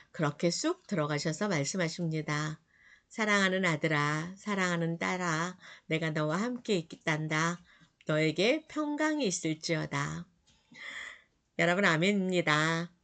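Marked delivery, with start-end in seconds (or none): 3.1-7.6 tender reassurance. Pretend. Jesus voiced tenderly to listeners. 8.1-10.3 tender blessing. Pretend. Jesus' words repeated tenderly.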